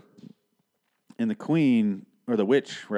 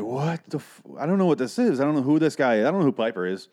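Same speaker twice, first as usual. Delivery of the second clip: raised pitch, baffled rant; exasperated confusion; 4 semitones higher, 3 dB louder than usual. Retold or imitated. Reviewer recalling his reaction to the film, exasperated confusion. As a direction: act out being totally lost.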